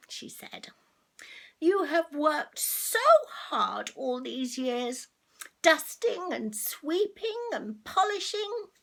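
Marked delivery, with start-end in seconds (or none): 1.6-8.7 a hint of a headmistress speech. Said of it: "the headmistress made a nice speech".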